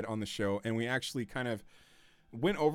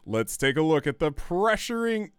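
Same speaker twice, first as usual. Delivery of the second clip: announcer voice; 4 dB louder than usual. Shown as a demonstration. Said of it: "Let me get my announcer voice going".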